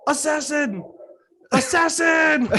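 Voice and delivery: high alarmed dog-bark voice; dog barking words. Retold or imitated. Retelling a joke on what dogs say, barking words. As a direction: yelp it like a guard dog raising the alarm. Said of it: "what do dogs say when they bark".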